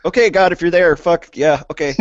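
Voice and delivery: frantic last-chance plea to God; desperate foxhole prayer. Pretend. Last-second prayer when facing death.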